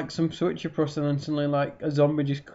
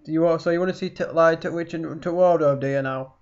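Yorkshire accent demo. Shown as a demonstration. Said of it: "A Yorkshire accent is something like that".

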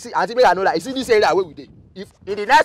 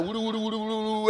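mocking babble; 2 semitones higher, 9 dB quieter, faster than usual. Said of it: "This one where you just dey talk".

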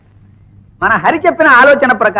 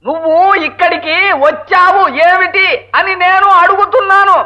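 slow and deliberate; 3 semitones higher than usual. Acted. Spelling out question to deaf wife.

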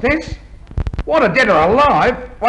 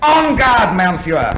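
mock French accent; slower than usual. Man posing as a French fencer to an inspector, mock French accent. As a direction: put on a swashbuckling French accent. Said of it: "the famous French fencer".

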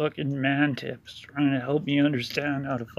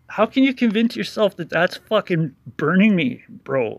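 exasperated; 4 semitones higher, 6 dB louder than usual. Real, not acted. Angry rant at critic.

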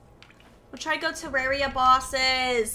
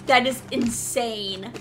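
astonished; much slower than usual. Real, not acted. Slow astonished remark.

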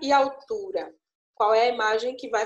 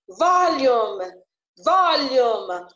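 "volume" with VOL held long and loud; stress on first syllable; 6 dB louder, much slower than usual. Shown as a demonstration. Teacher showing students the tonic syllable, drawn-out stress on "volume". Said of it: "a sílaba que eu demorei mais".

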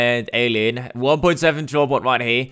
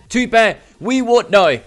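dismayed outcry; 7 semitones higher, 4 dB louder than usual. Real, not acted. Dismay as opponent clutches.

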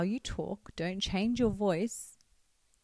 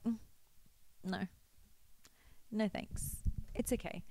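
softer, light and easy refusal; soft, unbothered no; 10 dB quieter than usual. Shown as a demonstration. Showing how a feminine woman says no, soft and unbothered. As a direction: decline gently, unbothered. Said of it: "She's just like".

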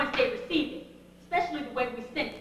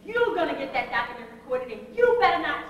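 louder, scolding a helper who slacked; fussing at her, rising to a loud better not; stern telling-off to Joyce, louder at the end; retold scolding; 6 dB louder than usual. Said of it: "I was really fussing at her pretty bad".

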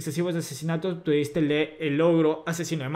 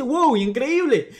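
high, loud, slow, drawn-out wonder; mock-amazed creature exclaiming over the dead; dragging creature voice; 8 semitones higher, 5 dB louder, much slower than usual. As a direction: stretch out the "Wow" like a gleeful little creature. Flying creature Dokaev speaks.

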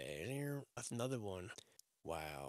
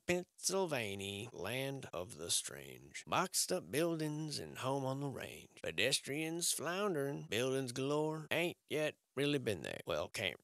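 limerick recital. Acted. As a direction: recite it like a silly poem. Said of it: "I said that to rhyme".

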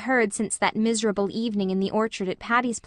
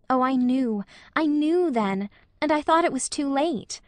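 building higher with each phrase, voice lifting; rising emotion; 5 semitones higher than usual. Acted. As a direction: let the feeling climb, pitch higher line by line. Anne's emotional confession.

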